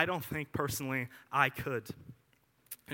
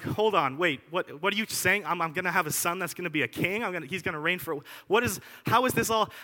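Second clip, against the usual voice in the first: flustered disbelief; 2 semitones higher than usual. Retold or imitated. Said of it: "I would be like".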